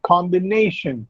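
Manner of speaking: "Combination" with the weight on "na"; stress on NAY. Shown as a demonstration. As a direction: stress the third syllable of "Combination", com-bi-NAY-shun. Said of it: "nay comes before the last syllable".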